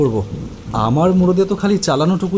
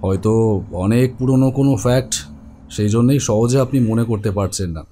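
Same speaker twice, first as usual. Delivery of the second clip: calm doctor; 5 semitones lower than usual. Acted. Doctor urges patient to remember.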